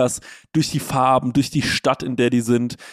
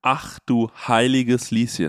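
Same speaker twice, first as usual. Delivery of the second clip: bekifft; slower than usual. Real, not acted. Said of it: "ich bin so high".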